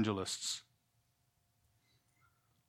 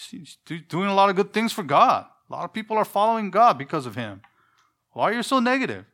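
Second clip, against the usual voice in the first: mocking the scolding crowd, rising higher as it goes; mock critics; 5 semitones higher than usual. Preacher mimics churchgoers scolding him, mocking whine. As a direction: put on a whiny accusing voice, climbing higher. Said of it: "a majority of people saying".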